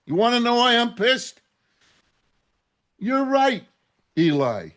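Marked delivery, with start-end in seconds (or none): 3.0-4.7 quoting the rabbis. Retold or imitated. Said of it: "what each and every one of these rabbis told me".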